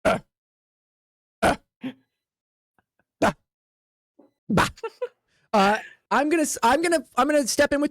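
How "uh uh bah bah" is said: short, sparse blank grunts; dumbfounded orc grunts. Acted. Orc staring at someone babbling bad Orcish, dumbfounded. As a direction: grunt blankly with long gaps. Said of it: "He just stares at you and just goes".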